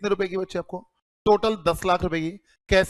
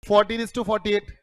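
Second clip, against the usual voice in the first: fourteen is to forty-eight, word by word; slow dictation; much slower than usual. Shown as a demonstration. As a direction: spell out the ratio slowly. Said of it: "इसका मतलब क्या है?". (धीरे-धीरे बोलकर लिखवाना)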